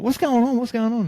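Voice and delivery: high, loud flustered mother; alarmed mum. Retold or imitated. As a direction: imitate a mum demanding answers in a panic. Alarmed mum repeats her question.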